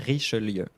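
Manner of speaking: "Richelieu" as "ree-shuh-LYUH", falling; French pronunciation demo. Shown as a demonstration. Teacher repeating the whole name, French "Richelieu". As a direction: put the corrected ending into "Richelieu". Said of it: "You would say the E in the middle".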